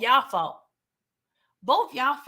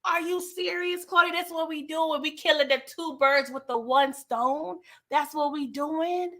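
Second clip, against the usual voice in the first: higher, half-sung disbelief at the TV; are you kidding me, Claudia; incredulous disbelief; 4 semitones higher than usual. Retold or imitated. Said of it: "I was like".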